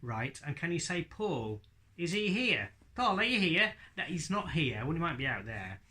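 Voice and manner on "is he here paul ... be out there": puppet voice. Acted. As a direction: play the daft puppet looking for Paul. Puppet Hadley misunderstands.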